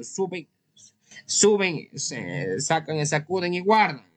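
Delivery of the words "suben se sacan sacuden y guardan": mocking emphasis. Shown as a demonstration. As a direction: throw the word up with a mocking jab. Mocking men quick like roosters.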